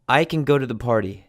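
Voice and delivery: CAN reduced to a quick, weak "kun"; unstressed can. Shown as a demonstration. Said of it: "the second is unstressed".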